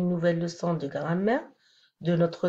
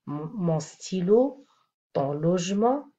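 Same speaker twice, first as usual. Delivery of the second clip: « mon stylo » lent, sans liaison; détacher « mon stylo »; slow example. Shown as a demonstration. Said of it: "on va revoir ces exemples". (exemple lent « mon stylo »)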